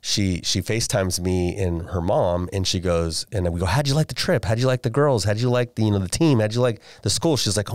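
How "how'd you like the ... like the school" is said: eager parent questions. Retold or imitated. Parents eagerly asking daughter.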